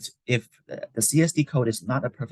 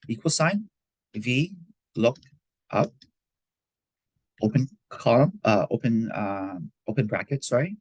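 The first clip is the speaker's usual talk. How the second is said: dictating. Shown as a demonstration. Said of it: "This is the formula".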